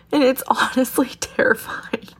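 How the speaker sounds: whispered through tears and a laugh; tearful whisper. Real, not acted. Tearful whisper, telling listeners about her love. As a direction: breathe it out, overwhelmed. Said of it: "I can't believe I'm crying".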